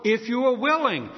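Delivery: building pleading prayer; earnest pleading prayer. Shown as a demonstration. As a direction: plead humbly but fervently. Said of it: "take that word please".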